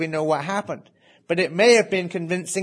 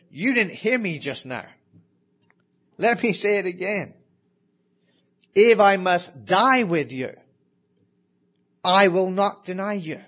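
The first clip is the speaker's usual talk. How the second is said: higher, insistent retold profession of faith; emphatic vow; 4 semitones higher, 4 dB louder than usual. Peter answering Jesus with a second profession of faith, emphatic. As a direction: press each phrase as an emphatic promise. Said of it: "But he said emphatically".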